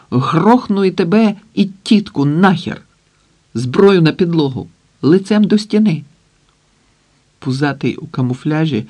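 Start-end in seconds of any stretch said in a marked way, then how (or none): 0.1-6.0 angry threats. Acted. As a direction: yell threats at the guards. Макар threatens guards with gun. (розлючений крик погрози)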